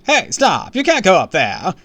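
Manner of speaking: loud, high warning shout; alarmed crying out. A narrator's reading. Receptionist warns kids off the staircase, crying out loudly. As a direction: call after someone running off. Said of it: "she cried".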